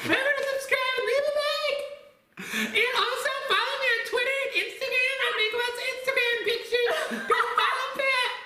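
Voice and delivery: squeaky high-pitched Mickey Mouse voice; chirpy outro like Mickey Mouse. Real, not acted. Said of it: "Why do I sound like Mickey Mouse".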